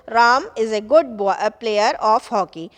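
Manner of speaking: slow, with weight on is and of; sentence stress demo. Shown as a demonstration. Teacher showing sentence stress to the class. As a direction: hit is and of, slowly. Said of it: "For example".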